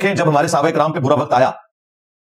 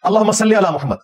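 quoted Durood, spoken not chanted; Durood recitation; 3 semitones higher than usual. Shown as a demonstration. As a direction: recite अल्लाहुम्मा सल्ली briefly, unsung. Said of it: "इमाम काबा भी दुरूशी पढ़ता है ना".

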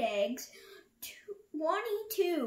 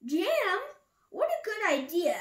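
loud, high, eager exclamation; delighted Elephant; 7 semitones higher, 5 dB louder than usual. A narrator's reading. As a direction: seize happily on a tasty idea. Elephant delighted by mention of jam.

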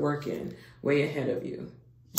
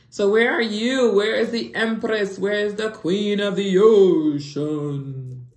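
calling out; 4 semitones higher, 8 dB louder than usual. Real, not acted. Calling out for the Queen.

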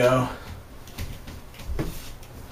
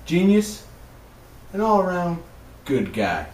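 mock hype; 7 semitones higher than usual. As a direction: hype up the guest like a showman. Mock-grand introduction of Steven.

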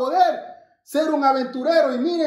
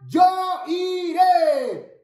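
model call; 2 semitones higher, much slower than usual. Shown as a demonstration. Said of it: "Y en español".

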